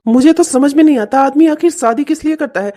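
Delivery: loud fed-up complaint; exasperated outburst. Acted. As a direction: vent at his mother loudly. Husband complains loudly.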